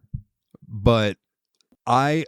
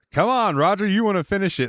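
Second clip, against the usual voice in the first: teasing villain; 10 semitones higher than usual. Retold or imitated. Christopher Lloyd's villain baiting Roger, in a lightly voiced taunt. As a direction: dangle the bait in a sing-song lure. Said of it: "He's like".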